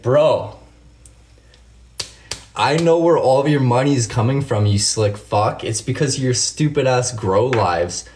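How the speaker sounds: worked-up, emphatic rant; indignant call-out. Real, not acted. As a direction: lay into him, hitting the insults. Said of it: "I'm gonna rant here for a second".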